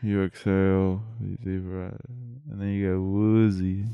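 slow, soothing breathing instructions; calm soothing voice. Shown as a demonstration. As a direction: talk them down gently into relaxing. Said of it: "You're gonna make our listeners sleep".

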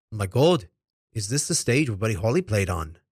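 put-on weak Liverpool accent as a famous singer; clumsy stab at a Liverpool accent.

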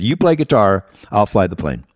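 loud, dismissive comeback; gruff pilot retort. Retold or imitated. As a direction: put the nervous passenger in his place. Rough pilot snaps back at him.

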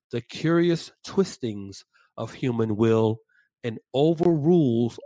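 slow, deliberate quoted sermon; sermon reading. Acted. Podcast host reading Spurgeon's sermon to his co-host, slow and grave. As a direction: read the old sermon with weight and pauses.

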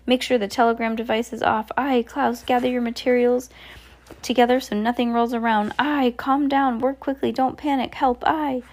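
panicked captain barking commands; a frantic sea captain in a flap; crying out in astonishment. Acted. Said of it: "began crying out in astonishment".

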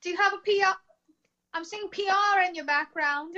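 lightly imitated Australian psychic; a hint of Australian, dropping the R sound; Australian accent. Psychic reads a client over FaceTime, Australian accent. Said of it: "he's got an Australian accent".

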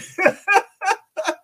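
high, loud burst of real giggling; helpless laughter. Real, not acted. Host cracks up over the senator, real high laughter.

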